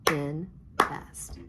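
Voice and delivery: "Invest" in two distinct beats; clapped-out syllables. Shown as a demonstration. Teacher clapping out "Invest" with pupils, syllable by syllable. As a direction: separate in and vest in "Invest".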